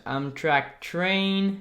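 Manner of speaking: slow, careful English accent on Amtrak Train. Shown as a demonstration. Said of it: "Mon accent anglais, c'est le meilleur". (Amtrak Train lu lentement avec un accent anglais)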